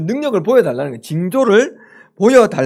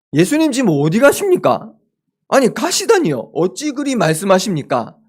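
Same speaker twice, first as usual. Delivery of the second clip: mock indignant questioning, pitch up; a hint of a protesting disciple; arguing back; 4 semitones higher than usual. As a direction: challenge him like a disbelieving follower. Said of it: "이렇게 따지는 것 같습니다".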